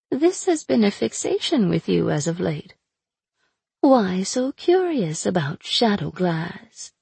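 sly, mocking captive witch; taunting sorceress voice. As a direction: purr it out like a cruel captor. Aina teasing.

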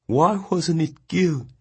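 high, slow tearful voice; weeping. A narrator's reading. The boy weeping in Mongnan's arms. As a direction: choke it out through tears. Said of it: "He was weeping uncontrollably".

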